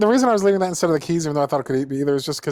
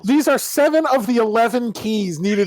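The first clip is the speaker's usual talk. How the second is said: hyped-up teaser voice, a bit higher; clickbait video narrator; 5 semitones higher than usual. Pretend. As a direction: sell it like a clickbait ad. Mocking clickbait article teasers.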